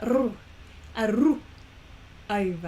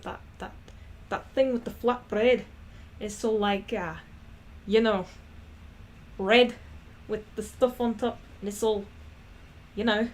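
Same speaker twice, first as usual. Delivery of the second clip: put-on Scottish accent.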